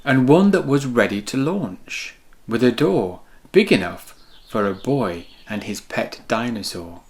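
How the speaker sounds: lively storybook read-aloud; reading to children. A narrator's reading. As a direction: read it like bedtime story time for kids. Reads picture book to children.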